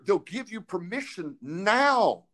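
fervent preaching with emphatic pauses; impassioned preaching. Real, not acted. Preaches people's need for prayer.

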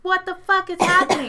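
high, loud pleading disbelief; mock panic. Friend signalling with his eyes, high panicky disbelief. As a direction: squeak it out like a silent plea.

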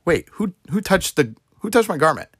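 sudden high, startled demand; startled question. Retold or imitated. Jesus turning in the crowd, startled and high. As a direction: ask it as if you just felt something odd. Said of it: "that Jesus was like".

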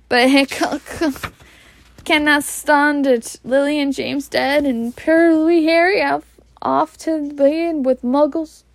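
high, grieving Hagrid voice; a big man close to tears; lamenting Scots giant. Acted. Hagrid lamenting Harry's fate.

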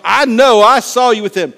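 acted insistent accusation; accusing little girl. Acts little girl accusing Peter.

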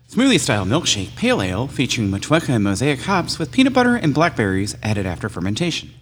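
lightly put-on official announcer read; official label-reading voice. Reads the beer label to the hosts, lightly official reading voice. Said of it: "put my official label reading voice on".

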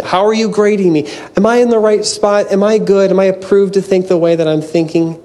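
mock approval-seeking. Mimics approval-seeking questions to God.

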